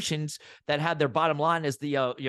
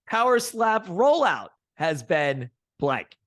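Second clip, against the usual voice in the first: slow quiz prompt; 5 dB louder, slower than usual. Acted. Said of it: "One word answers".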